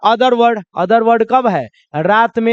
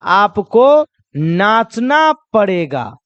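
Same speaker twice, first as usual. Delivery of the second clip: slow, pressing demand; pushy guest; much slower than usual. Acted. Wedding guest pushing you to dance, slow. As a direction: insist on the dancing. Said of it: "क्या कहेगा?".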